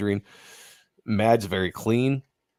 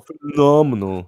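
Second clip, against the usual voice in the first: Phenomenal stretched slowly and punched loud, higher; mock grand emphasis; 6 semitones higher, 9 dB louder, slower than usual. Finishing his cohost's fumbled word, slow and loud. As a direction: land Phenomenal big and slow, teasing.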